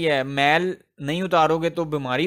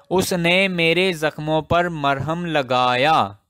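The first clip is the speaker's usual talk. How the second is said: slow, careful example. Shown as a demonstration. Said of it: "लगाई नहीं".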